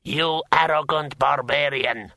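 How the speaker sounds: offended outrage; indignant. A narrator's reading. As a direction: spit out the insult at your rival. Scowling insult at rival.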